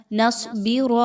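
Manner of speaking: نصبر ending in a full, thick ر, not thin; teacher models the full ر in نصبر; heavy ra. Shown as a demonstration. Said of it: "ایسے پڑھیے".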